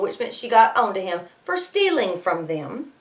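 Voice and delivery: plain reading voice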